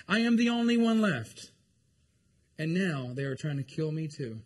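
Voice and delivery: high, loud, pleading protest to God; impassioned complaint. Acted. Preacher voicing Elijah protesting loudly to the Lord. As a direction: cry out as the hunted prophet.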